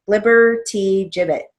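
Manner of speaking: flibbertigibbet said whole and clear, stress on flib; demo pronunciation. Shown as a demonstration. Teacher showing students how flibbertigibbet is pronounced. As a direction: sound out flibbertigibbet for the class. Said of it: "this is pronounced flibbertigibbet".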